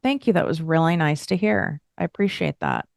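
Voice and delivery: really mean it as you thank them; sincere thank you. Retold or imitated. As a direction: take the compliment in and answer with sincere thanks. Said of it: "take a moment and pause and allow myself to feel".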